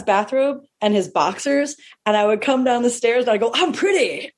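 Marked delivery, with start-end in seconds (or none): 3.5-4.3 boxer boast. Pretend. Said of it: "I used to dress up like Muhammad Ali".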